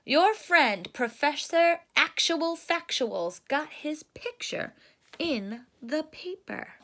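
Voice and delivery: lightly hammed-up Papa Bear. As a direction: read it as a proud papa bear. Papa Bear voiced in read story.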